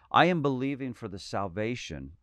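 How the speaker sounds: speaking with a dry mouth; parched, sticky mouth on "salvation". Real, not acted. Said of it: "my mouth is so dry".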